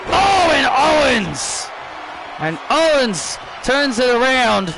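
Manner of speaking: high shouted play-by-play; excited commentator call. Acted. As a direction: call the turnaround live. Commentator calls a reversal.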